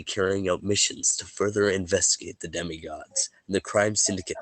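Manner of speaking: a measured game-master read of last session's events, only lightly set apart from his chat; story recap narration. Acted. Game master recapping the last session for his players, a lightly measured narrator read. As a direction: tell the story so far like opening a chapter.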